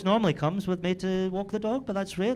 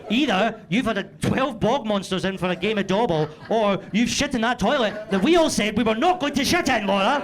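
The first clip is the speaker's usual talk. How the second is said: mock accusation; 4 semitones higher, 4 dB louder than usual. Accusing wife in retold rant.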